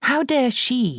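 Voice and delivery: loud, high furious father; angry father. A narrator's reading. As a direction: spit it out in outrage. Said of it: "he seemed to be saying".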